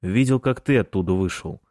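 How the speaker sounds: plain reading voice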